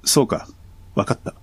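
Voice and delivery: flat deadpan reading, no emotion; monotone. Shown as a demonstration. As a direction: say it with zero feeling. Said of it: "棒読みで言ったら".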